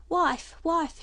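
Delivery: loud, high calling out; shouting. Acted. Father shouting to his wife in the cottage, loud call. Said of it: "shouted Dot's father".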